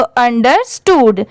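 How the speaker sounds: अंडरस्टूड said in two parts, अंडर then स्टूड; teacher joining अंडर and स्टूड as two clear halves; split into halves. Shown as a demonstration. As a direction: break अंडरस्टूड after अंडर. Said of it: "ऐसे आप half half करके".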